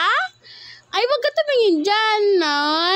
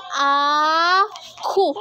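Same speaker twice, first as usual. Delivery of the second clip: put-on cooing for baby to copy; 2 semitones lower than usual. Shown as a demonstration. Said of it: "Gayahin mo".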